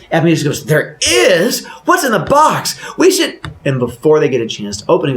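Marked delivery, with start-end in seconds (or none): 0.6-3.4 high, loud excited questions; eager curiosity. Acted. Husband hears of a mystery box, high eager curiosity. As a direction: pitch shoots up with curiosity.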